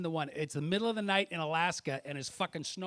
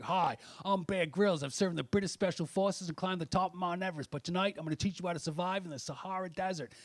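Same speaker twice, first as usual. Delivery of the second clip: Bear Grylls impression. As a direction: lightly mimic the survival TV host introducing himself. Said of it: "He comes on, he's like".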